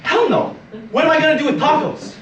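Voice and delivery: loud, high-pitched disbelief; exasperated yell. Acted. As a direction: yell it, baffled and annoyed by the victim. Robber exasperated by victim's mistake.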